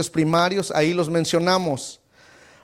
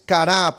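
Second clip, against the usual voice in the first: "kará" stressed on the final A; stress on last A. Shown as a demonstration. Teacher giving the class a Hebrew word, "kará" stressed on final A. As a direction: land the weight on the last A of "kará". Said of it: "Póngale ahí el acento".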